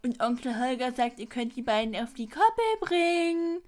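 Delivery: lightly hammed-up grumpy uncle; mock Holger. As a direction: parody the uncle's bossy order. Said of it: "Und dann sagt Holger so".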